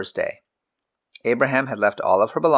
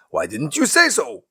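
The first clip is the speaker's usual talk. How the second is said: shouting; 6 semitones higher than usual. Acted. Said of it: "the king shouted".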